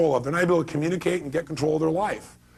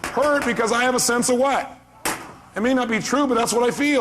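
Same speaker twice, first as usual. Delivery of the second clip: a plea voiced a bit higher; voicing hurt inner plea; 8 semitones higher than usual. Speaker voicing the hurt mom's inner plea, pleading. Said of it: "help is saying".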